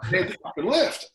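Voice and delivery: high, loud shouted echo of the wife; retold yell. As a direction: shout it again, almost cracking. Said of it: "never seen anyone sprint up".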